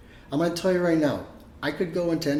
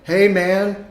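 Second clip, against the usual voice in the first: nephew asking; 4 semitones higher, slower than usual. Retold or imitated. Nephews begging uncle for tuition, high mock voice. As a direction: play the cheeky nephew asking for money. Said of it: "they're like".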